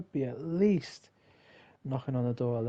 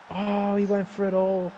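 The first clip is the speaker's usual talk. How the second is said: dramatic; 7 semitones higher, 5 dB louder than usual. Real, not acted. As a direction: groan it out dramatically at a near miss. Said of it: "That sounded so dramatic".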